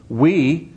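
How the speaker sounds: "We" lifted and set apart on its own; stress on WE. Shown as a demonstration. Preacher marking the emphatic "We" for the congregation. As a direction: hit "We" alone, then pause. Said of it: "emphatic position".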